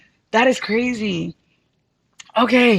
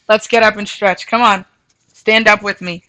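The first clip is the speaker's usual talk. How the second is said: coach call-out; 7 dB louder than usual. Real, not acted. Leads group stretch, calling out.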